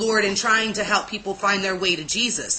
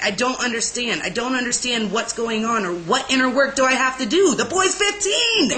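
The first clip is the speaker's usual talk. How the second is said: exasperated protest building in pitch, no real crying; retold bawling; 2 semitones higher than usual. Speaker retells bawling to God over inner work, mock wail. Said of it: "I started bawling".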